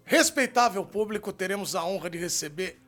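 booming ringmaster introduction. Pretend. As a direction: announce the star like a circus host. Circus-style guest introduction.

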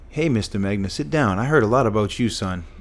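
lively imitated Southern twang, pitch jumping mid-phrase. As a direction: greet like a Southern teacher, voice lifting. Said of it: "he had this southern twang accent".

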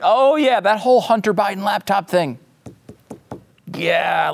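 breezy, offhand "oh yeah" up high; mock casual admission. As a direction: shrug it off like old news. Mocking media admitting laptop real.

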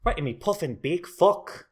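light mock Irish accent; a casual put-on Irish brogue, half-joking. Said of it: "See, I can do an Irish accent".

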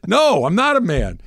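put-on high, pleading teenage voice; whiny panicked teen. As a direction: plead like a scared kid. Playing scared teen.

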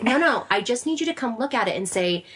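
husband begging for praise, laughing; laughing husband plea. Retold or imitated. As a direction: plead through a laugh. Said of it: "he was like".

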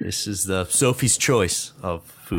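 slow, laughing mock agony; agonized laughing debate. Real, not acted. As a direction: laugh through a mock dilemma.

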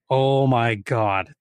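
slow, drawn-out oh my God; dragged-out exasperated sigh of words; exasperated groan. Retold or imitated. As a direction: let it sag in disbelief. Retold disbelief at lost hikers.

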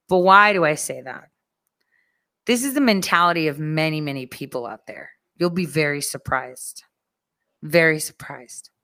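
ordinary talk

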